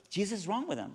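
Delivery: high-pitched puzzled repeat, imitated; bewildered echo. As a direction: repeat it up high as the baffled lady. Lady echoes the answer in bewilderment.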